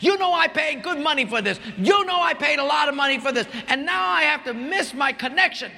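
mock an irate passenger berating the agent; angry customer yelling. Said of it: "she starts yelling at her".

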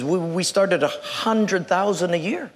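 a hint of halting old-man stammer; shaking elderly man. Old boss names the salary, mild stammer. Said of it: "this man is kind of shaking".

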